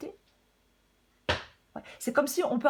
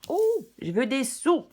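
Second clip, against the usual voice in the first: loud, high, drawn-out mock demand; hammed-up craving, stretched out and loud; playful greedy wish; 6 semitones higher, 6 dB louder, slower than usual. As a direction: play at wanting it badly. Playfully voices the Libras' wish.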